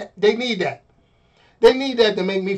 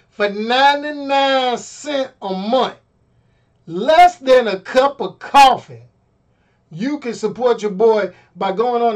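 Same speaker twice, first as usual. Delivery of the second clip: slow, polished commercial pitch; ad read; 3 semitones higher than usual. Shown as a demonstration. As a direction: sell it like a radio spot. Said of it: "hold on, let me go".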